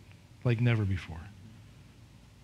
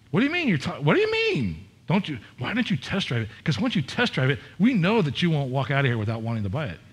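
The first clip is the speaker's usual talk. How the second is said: pushy salesman. Retold or imitated. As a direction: sell it hard like a car dealer. Pushy car salesman voiced.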